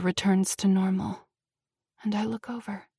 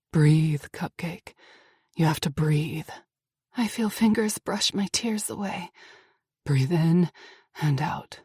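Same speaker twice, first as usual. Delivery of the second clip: calming; 5 semitones lower than usual. Acted. Axel calming her panic.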